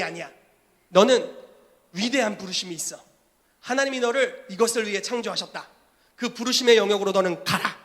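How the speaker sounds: commanding prophet. Acted. Prophet charging the young believer, loud and commanding. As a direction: declare a calling over him with authority. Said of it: "선지자가 이렇게 말합니다".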